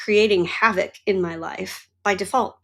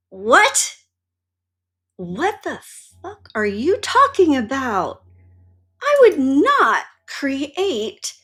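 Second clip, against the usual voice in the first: retold indignant outburst; 3 semitones higher than usual. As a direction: replay the outraged reaction. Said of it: "I was so angry".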